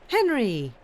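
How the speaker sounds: Anne calls across the garden to Henry, calling out. A narrator's reading. Wife spots husband at the gate, calls out to him. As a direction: call his name out across the garden. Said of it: "she called".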